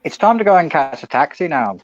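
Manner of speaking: put-on failed American accent that comes out Irish; Irish-sounding accent. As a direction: attempt American, slip into Irish. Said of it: "That's Irish".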